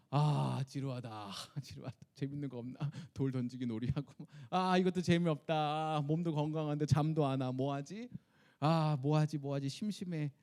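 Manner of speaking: a low, lightly voiced bored sigh; bored Moses. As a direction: play Moses idly bored on the mountain. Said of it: "아니면". (심심해서 투덜대는 모세, 낮고 나른하게)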